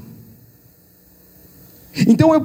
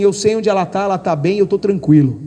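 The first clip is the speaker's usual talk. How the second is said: calm; 3 semitones lower than usual. Retold or imitated. Son at the funeral saying where his mother is, calm. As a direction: retell a calm, certain reassurance. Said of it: "Tava tranquilo".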